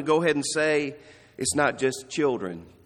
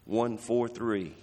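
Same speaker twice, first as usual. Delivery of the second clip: slow deliberate numbers; 5 semitones lower, 5 dB quieter, slower than usual. Shown as a demonstration. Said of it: "name these numbers".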